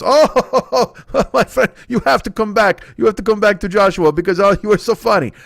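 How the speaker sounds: put-on high, eager accented old deli man; high eager voice of the old deli owner pushing a huge sandwich. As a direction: gush like a proud old shopkeeper. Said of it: "deli owner quoted after laugh".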